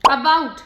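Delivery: अबाउट opening on a short weak 'uh'; flat A sound. Shown as a demonstration. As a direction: say अबाउट with a neutral first vowel. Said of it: "ए की आवाज बिल्कुल flat आ आती है". (अबाउट की शुरुआत हल्के 'अ' से)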